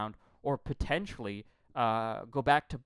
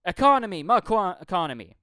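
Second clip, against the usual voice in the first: much higher, loud mocking parody of a candidate; 6 semitones higher, 10 dB louder than usual. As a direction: squeal the buzzword like a pompous politician. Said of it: "the third thing was".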